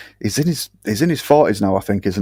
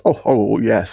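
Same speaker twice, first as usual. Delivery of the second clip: mild Hugh Grant; slower than usual. Retold or imitated. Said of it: "Hugh Grant style".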